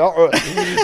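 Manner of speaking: mock grunts through a seized-up face; imitated stuck-face noises. Showing mates his stuck face, comic strained grunts. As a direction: grunt helplessly, mimicking a stuck mouth. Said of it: "my face was like".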